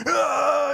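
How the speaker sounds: high imitated preacher's cry; mock hellfire roar. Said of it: "preacher that's preaching hell every Sunday".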